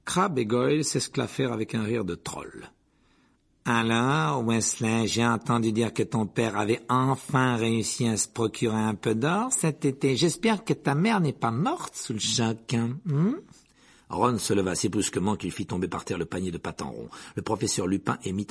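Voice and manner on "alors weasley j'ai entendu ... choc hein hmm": lightly voiced Malfoy drawling slowly; a hint of a sneering drawl, slow. Malfoy taunts Ron about his family, drawling sneer. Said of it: "de son habituelle voix traînante".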